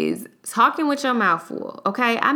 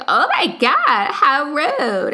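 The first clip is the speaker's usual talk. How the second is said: higher, louder, slow mock outrage; offended gasp; 8 semitones higher, 5 dB louder, much slower than usual. Passenger told to get out, mock-offended and loud. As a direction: play the scandalised passenger, drawn out. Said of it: "And she's like".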